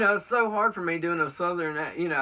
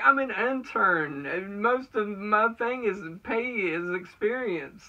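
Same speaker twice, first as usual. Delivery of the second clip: retorting to the bosses; 7 semitones higher, slower than usual. Retold or imitated. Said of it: "I'm like".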